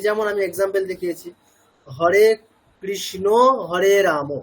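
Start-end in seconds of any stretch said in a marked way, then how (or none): 1.9-4.3 হরে কৃষ্ণ হরে রাম with final vowels as o; Bengali o-ending. Shown as a demonstration. Teacher showing learners the Bengali habit, o-ending pronunciation of কৃষ্ণ and রাম. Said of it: "অকারটাকে ওকারের মতো বলি".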